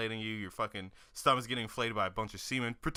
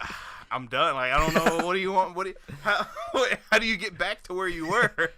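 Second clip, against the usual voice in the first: louder, higher mock giving up; laughing exasperation; 5 semitones higher, 6 dB louder than usual. First-time actor after a slip-up, laughing exasperation. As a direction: throw up your hands through laughter.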